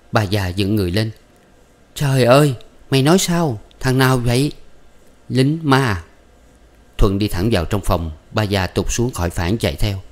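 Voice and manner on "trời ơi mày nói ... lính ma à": high, loud startled outcry; shocked mother. A narrator's reading. Mother crying out in shock at the marriage news, high and loud. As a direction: gasp it out in disbelief.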